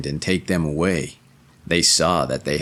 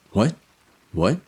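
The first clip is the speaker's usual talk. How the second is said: Treves dialect; 4 semitones higher than usual. Acted. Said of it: "in the way people speak in the neighborhood of Treves".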